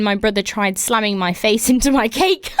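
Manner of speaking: words broken by giggles; can't hold back the laugh mid-sentence; laughing through it. Real, not acted. Host reading a listener story, laughing through the words.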